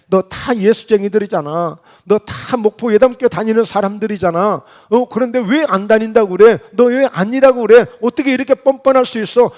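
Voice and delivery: mounting, mildly indignant challenge; accusing questioning. Acted. Bystanders confront Peter for denying he belongs, accusingly. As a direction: press the accusation, building as you go. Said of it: "지금 묻는 거예요".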